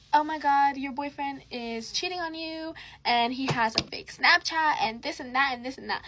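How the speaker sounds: lightly mock a girl spilling gossip; mock tattletale girl. Mocking retelling of the girl's call.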